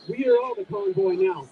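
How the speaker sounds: shouted rallying cry to the crowd. Real, not acted. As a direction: call it out to the crowd.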